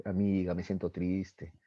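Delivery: sad confession. Acted. Girl confides in her friend, mildly sad. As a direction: let it sink slowly, acted sadness. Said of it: "la ve a su amiga triste".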